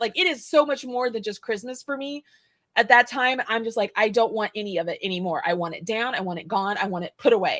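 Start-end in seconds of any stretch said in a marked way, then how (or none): none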